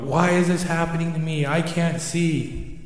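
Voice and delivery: mock yelling out. Owl stuck on the branch for days, mildly yelling out. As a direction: rush the question, then drag out the complaint. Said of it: "And Al's yelling out".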